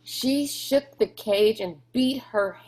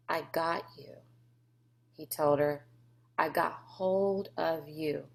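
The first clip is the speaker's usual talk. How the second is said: whispered comfort; 2 semitones lower, 6 dB quieter than usual. A narrator's reading. Rob soothing crying Sistine at the fence, whispered. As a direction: soothe her gently. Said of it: "He whispered to the, to her".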